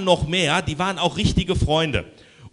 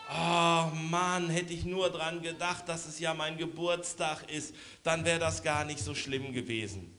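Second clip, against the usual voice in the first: beaming; 8 dB quieter than usual. Acted. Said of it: "der Lubo strahlt".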